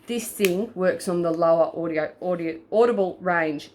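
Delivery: stumbling over the words; tripping on a repeated word; stuttering. Real, not acted. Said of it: "I'm stuttering really bad today".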